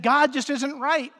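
Adam brushing off God, half-voiced defiance; defiant Adam. Adam defying God, with defiance lightly acted. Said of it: "He made a willful decision and said".

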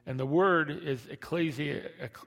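lisping through missing teeth; missing front teeth. Real, not acted. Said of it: "My teeth are missing".

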